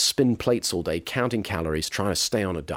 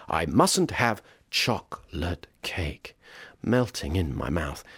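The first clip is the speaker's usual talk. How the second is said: softer, slow, savouring the craving; tempted inner voice; 5 semitones lower, 5 dB quieter, slower than usual. Retold or imitated. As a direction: murmur the craving to yourself.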